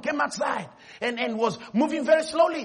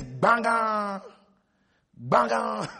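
bell clang mimicked in speech; bell imitation; much slower than usual. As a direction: ring it out like a school bell. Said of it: "rang the bell like this".

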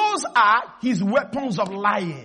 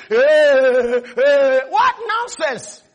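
dismissive scoff; 6 dB louder, much slower than usual. Retold or imitated. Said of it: "you start panicking".

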